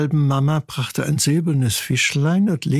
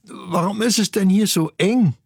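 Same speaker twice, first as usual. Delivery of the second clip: higher chick voice with food in the beak; munching while talking; 6 semitones higher than usual. Acted. Chick Ingmar to his mother while nibbling fish, munching. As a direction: complain lightly through a small mouthful. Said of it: "an einem Fischbrocken mümmelte".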